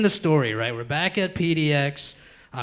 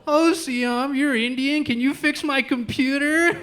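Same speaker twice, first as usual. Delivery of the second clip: mock racist stranger; 8 semitones higher, slower than usual. Racist stranger voiced, higher.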